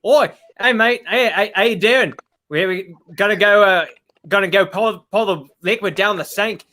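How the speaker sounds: improvised Australian mate accent. Shown as a demonstration. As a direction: put on a casual Aussie accent. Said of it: "I do an okay Australian accent".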